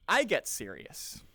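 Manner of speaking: slow, grave statement; serious. Shown as a demonstration. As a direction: turn earnest and measured. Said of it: "If someone's a lot more serious".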